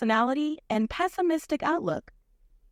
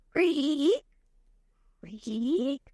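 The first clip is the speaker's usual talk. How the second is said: creaky floorboard sound. Pretend. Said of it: "make the sound of creaky floorboards".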